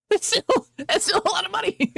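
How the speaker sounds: high-pitched disbelief at the price; exasperated. Real, not acted. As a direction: squeak it out in disbelief.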